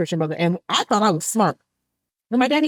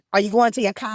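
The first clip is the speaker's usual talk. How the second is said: lightly mimicked Boston accent. Guest showing how Boston folks talk, mock Boston accent. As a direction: imitate Boston talk on the vowels. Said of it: "how them Boston niggas be talking".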